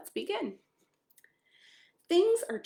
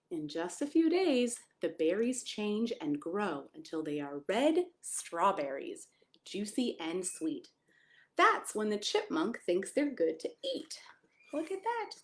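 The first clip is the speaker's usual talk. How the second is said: whisper. Acted. Reading the strawberry page to children in a whisper. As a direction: hush it like a secret for kids.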